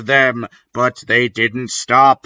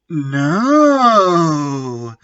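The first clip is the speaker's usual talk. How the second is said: mock scream; 4 semitones higher than usual. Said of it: "I screamed sexily".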